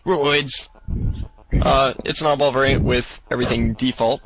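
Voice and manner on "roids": mock-hype exclamation, higher pitched; drawn-out, raised-voice call; really loud. Shown as a demonstration. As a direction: say it like it has a row of exclamation marks. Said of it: "like, really loud".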